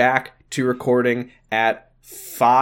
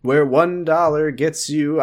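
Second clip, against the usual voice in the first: high, slow spooky voice; lightly spooky, drawn-out announcer; 8 semitones higher than usual. Acted. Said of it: "I always do a spooky voice".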